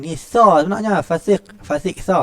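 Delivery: fasik said with sa, not sin; correct pronunciation. Shown as a demonstration. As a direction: say fasik with a clear sa sound. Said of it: "buat pembetulan".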